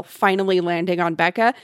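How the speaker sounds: ordinary talk, nothing marked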